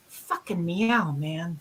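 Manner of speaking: cat voice. Retold or imitated. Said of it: "they go".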